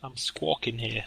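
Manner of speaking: put-on slow, understated New York accent. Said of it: "put on a horrendous accent".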